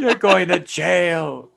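very slow stern mock; imitating the cop. Quoting the cop to the teacher again, slow and stern. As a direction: drag it out sternly.

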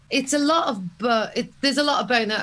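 talking through a mouthful; words round a bite of food; chewing while talking. Real, not acted. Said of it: "Can you hear me eating?".

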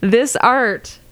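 dramatic salesman teaser voice; infomercial pitch. Pretend. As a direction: pitch it like a late-night ad. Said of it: "I'm an infomercial".

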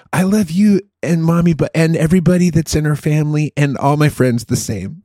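imitating a little girl's earnest list; a hint of a high kid voice; little daughter. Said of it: "and she's like".

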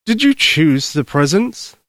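put-on slow, kindly old Santa; gentle Santa voice. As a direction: soothe her like a grandfather.

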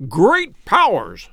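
slow, drawn-out exclamation of amazement; astonished cry. A narrator's reading. Sir Henry suddenly recognises his long-lost brother, astonished cry. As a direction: cry out, stretching both words in astonishment. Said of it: "he cried".

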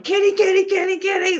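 high squeaky calling voice; Bubbles impression. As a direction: call the cat like Bubbles. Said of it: "Bubbles going".

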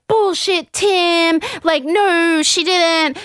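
high, emphatic scoffing denial; imitating outraged disbelief; mock indignation. All the boys to Tim, mock indignant. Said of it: "all the boys are like".

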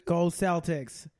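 deliberate Boston catchphrases; Boston accent. Acted. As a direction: play a Boston sports fan. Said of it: "that was my Boston accent".

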